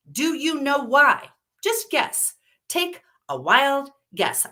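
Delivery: high, loud, cornering fury; furious outburst. A narrator's reading. Woman confronting a friend who backed down, furious. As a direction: force the answer out of her. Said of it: "desire to just scream her frustration out".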